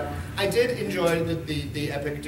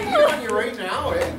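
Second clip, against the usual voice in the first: put-on Northern Alberta accent; 6 semitones higher, 4 dB louder than usual. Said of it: "That's how they talk".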